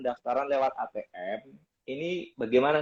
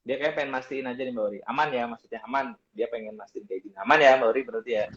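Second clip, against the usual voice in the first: corrupted glitchy audio. Real, not acted. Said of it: "suaranya putus-putus".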